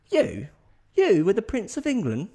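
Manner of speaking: high, loud mock disbelief; hammed-up astonished mate; incredulous. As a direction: question him as if gobsmacked. Mate disbelieves Harry's claim.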